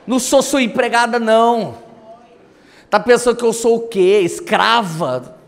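half-shouted marital tirade, retold; retold angry yelling. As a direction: imitate a scolding wife, dragging out the last word. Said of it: "quando ela tava gritando".

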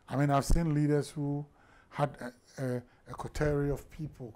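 ordinary talk, nothing marked

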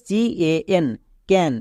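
letter by letter, then the whole word; spelling then word. Shown as a demonstration. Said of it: "সিএএন এর আলাদা উচ্চারণ করব". (অক্ষর বলে তারপর শব্দ উচ্চারণ)

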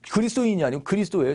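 ordinary talk, nothing marked

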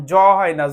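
জ as a buzzing z sound; pronunciation demo. Shown as a demonstration. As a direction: say জ with a voiced buzz. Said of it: "double জেড এর উচ্চারণটা কিন্তু জ".

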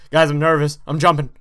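nervous. Real, not acted.

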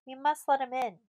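high, loud, urgent call. A narrator's reading. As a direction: urge it loudly across the fort. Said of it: "called Zanzra".

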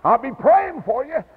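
a retold, choked-up high farewell to the boy on the bus; tearful goodbye. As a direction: call a tearful goodbye after the departing bus. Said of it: "I was crying, waving".

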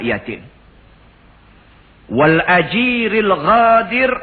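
forceful sermon with slow, drawn-out Arabic phrases; preaching. Acted. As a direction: preach it with emphatic swells on the oath. Preaches with recitation and translation.

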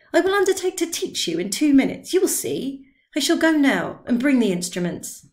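lightly voiced tipsy confidence; insistent old man. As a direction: wave away his doubts. Drioli insisting, leaving.

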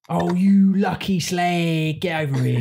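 slow, drawn "Oh, you lucky slag" in South London; affectionate South London teasing; mock South London mate calling a friend over; South London accent. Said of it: "a term of endearment".

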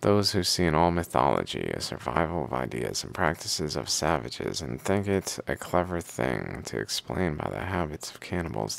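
steady recital with firm phrase openings; reading aloud. Acted. Reader reciting hymns to the Pharaoh and their commentary, reading aloud. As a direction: read it like verses from an old book.

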